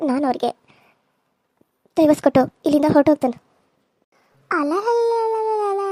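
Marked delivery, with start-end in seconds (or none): 2.0-3.4 loud fast vow. Acted. Threatens divorce. 4.5-5.8 mock crying taunt. Rival mocks her.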